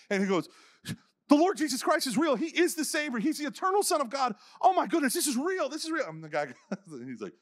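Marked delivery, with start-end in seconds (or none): 1.3-6.1 much higher, louder rapturous declaration; ecstatic proclamation. Retold or imitated. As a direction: proclaim it like a man just set free. Man proclaims faith ecstatically.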